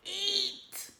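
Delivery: hungry dragon insisting on food. A narrator's reading. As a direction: demand it like a greedy pet. Toothless voiced as dragon.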